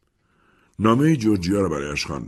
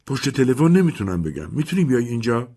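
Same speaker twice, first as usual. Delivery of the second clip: pleading Mimi; 7 semitones higher than usual. Acted.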